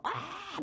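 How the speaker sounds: retold scream. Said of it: "막 이랬던 게".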